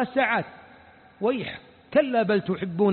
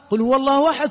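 "قل هو الله أحد" recited louder and fuller; reverent recitation; 2 semitones higher, 4 dB louder, faster than usual. Shown as a demonstration. Preacher reciting the surah with reverence. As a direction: give each word of "قل هو الله أحد" its weight.

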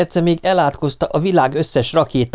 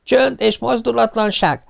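stern command; 11 semitones higher than usual. Acted. Pop ordering silence before ignition, stern command. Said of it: "parancsolt ránk".

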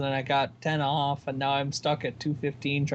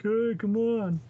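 pleading nudge; 6 semitones higher, slower than usual. Retold or imitated. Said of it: "be like".

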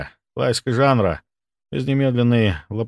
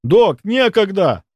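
urgent pleading, higher; 10 semitones higher, 5 dB louder, slower than usual. Acted. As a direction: beg him to hurry. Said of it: "взмолился".

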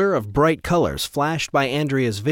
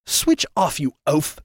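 shouting; 2 semitones higher than usual. Acted. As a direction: bark at the oaf. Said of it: "Trevor shouted".

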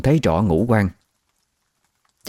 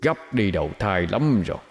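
muttering ghost whisper; 6 dB quieter than usual. Acted. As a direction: mutter to yourself like a lurking ghost. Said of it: "cái giọng cứ chui rút vào tai như ma quỷ".

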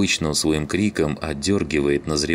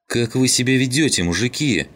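high-pitched, reproachful outcry; exclaiming; 8 semitones higher, 3 dB louder than usual. A narrator's reading. Клим scolds the quarrelling men, exclaiming. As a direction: exclaim in dismay at their behaviour. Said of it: "воскликнул Клим".

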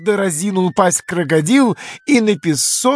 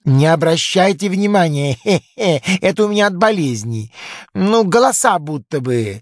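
chuckling crocodile. Acted.

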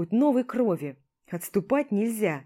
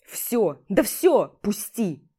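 barked snap; 5 dB louder, much slower than usual. Acted. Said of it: "рявкую я, вырываясь".

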